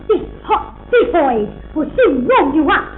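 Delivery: slogan recited with spaced, weighty words; quoted advert line. Retold or imitated. Friend quoting the actress's advert back to her, admiring recital. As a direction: imitate the commercial, savouring each word. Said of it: "when you said".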